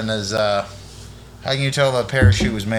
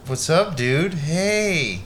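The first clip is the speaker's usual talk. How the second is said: West Coast dude; 2 semitones higher, much slower than usual. Pretend. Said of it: "The West Coast one".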